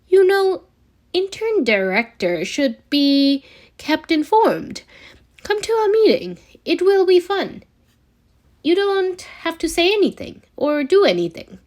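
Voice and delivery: high, bright coaxing, pitched well up; Tony talking Peter into coming to the meeting, eager and pitched high. Acted. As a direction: talk him into it like it's a treat.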